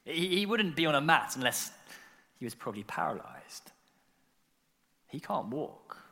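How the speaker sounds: low, quiet, dawning realisation; thinking it through. Acted. Onlooker thinking as the cogs start to turn, hushed realisation. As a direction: let it dawn softly, leaving long pauses. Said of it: "You start to think".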